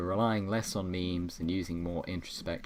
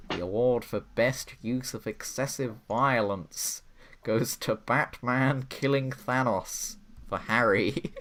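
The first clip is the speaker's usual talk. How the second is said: higher, louder, slowing grand announcement; announcer voice; 5 semitones higher, 6 dB louder than usual. Pretend. Host reading out the violence award, lightly grand announcer voice.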